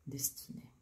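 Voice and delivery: soft whisper. Real, not acted. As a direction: breathe the word out. Whispers the card's name.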